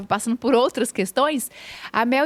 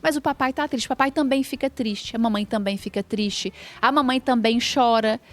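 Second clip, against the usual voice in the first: explicar com calma ao filho; tom acolhedor, mais suave. Shown as a demonstration. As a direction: fala baixa e carinhosa. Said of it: "dar a referência correta". (pai acalma o filho: voz suave e acolhedora)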